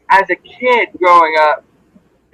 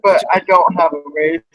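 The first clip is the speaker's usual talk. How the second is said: underwater. Real, not acted. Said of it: "you sound like you're underwater".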